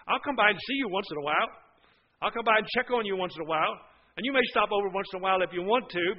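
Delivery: quick, offhand promise to visit; casual brush-off. Acted. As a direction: toss it off lightly and fast. Voicing offhand husband to wife.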